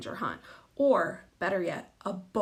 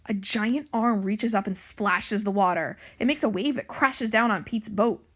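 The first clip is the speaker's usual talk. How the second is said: animated storybook narration, louder than chat; story reading to children; 5 dB louder than usual. A narrator's reading. Librarian reading a pirate cat book to young pupils, animated narration. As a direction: read it out clearly for young listeners.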